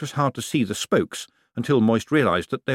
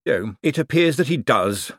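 sighing; 4 semitones higher than usual. Acted. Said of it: "sighed Bent".

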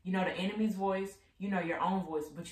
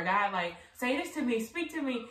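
pleading prayer; 6 semitones higher, 3 dB louder than usual. Retold or imitated.

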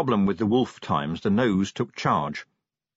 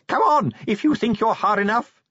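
very high, strained challenge; little man's wild battle cry; wild scream; 12 semitones higher, 4 dB louder than usual. A narrator's reading. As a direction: scream a dare at the enemy, pitch shooting up. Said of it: "he screamed wildly".

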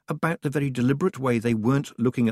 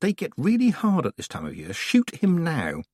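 urging; 8 semitones higher than usual. A narrator's reading. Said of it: "her second thoughts urged".

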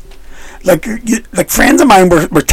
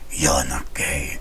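much lower, softer, slow reply; deadpan retort; 14 dB quieter, much slower than usual. Retold or imitated. Prostitute doubting his claim, low slow deadpan. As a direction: drop it flat and slow.

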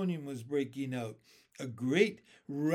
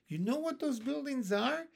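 excited shout; 9 semitones higher than usual. A narrator's reading. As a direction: burst out eagerly as James. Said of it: "shouted James".

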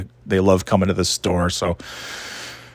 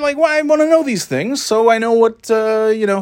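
mock exasperation; 11 semitones higher than usual. Continuing exasperated rant.

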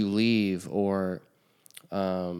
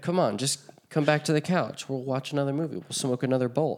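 higher-pitched mock cajoling; imitated coaxing friend; 5 semitones higher than usual. Imitating friends dragging someone back in, coaxing mockingly. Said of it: "they always wanna drag you back in".

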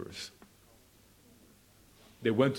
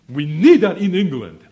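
high, loud rallying cry; shouting preacher; 7 semitones higher, 16 dB louder than usual. Real, not acted. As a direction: shout it out to the whole hall. Sermon climax, crying out.

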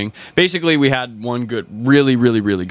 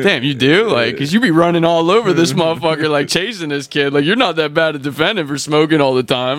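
half disappointed; 5 semitones higher, 3 dB louder than usual. Retold or imitated. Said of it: "half disappointed, half kinda like".

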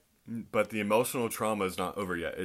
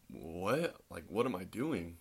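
acted baffled question, softer with rising pitch; bewildered; 3 dB quieter, slower than usual. Startled listener answering the pastor yelling at them, bewildered. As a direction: play someone taken aback and confused.

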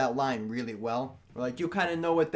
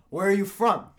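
put-on light heavy New York accent; lightly voiced New York guy asking; 4 semitones higher, 4 dB louder than usual. Host quizzing the guest, in a light New York accent. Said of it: "This, like, heavy New York accent".

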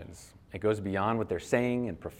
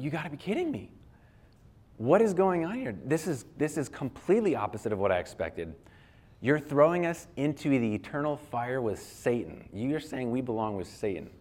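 higher, incredulous cry of people caught off guard; stunned disbelief; 3 semitones higher than usual. Retold or imitated. Crowd about to be thrown out, to Jesus: shocked disbelief. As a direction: voice the doomed crowd's shock, pitch rising. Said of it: "are thinking, like".

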